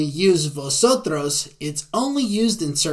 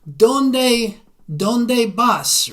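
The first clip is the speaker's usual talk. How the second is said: lively question; 7 semitones higher, 5 dB louder, much slower than usual. Acted. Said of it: "In the same way".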